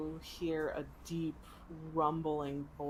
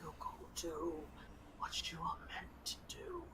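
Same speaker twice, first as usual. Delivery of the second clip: dying dragon whisper; 6 dB quieter than usual. Acted. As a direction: whisper through blood and pain. Dying dragon whispers last words.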